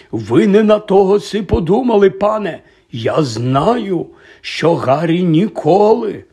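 high, loud rush of protest; agitated Hagrid. A narrator's reading. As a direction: cut in and keep pleading. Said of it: "проте Гегрід не зупинявся".

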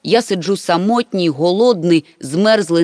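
steady reading of a pitiful letter; reading aloud. A narrator's reading. Mama reads out the stranded writer's plight, clearly. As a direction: read the list out clearly. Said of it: "й голосно прочитала".

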